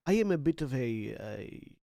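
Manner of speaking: put-on light Macedonian accent. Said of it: "allowing my Macedonian accent to slip back in".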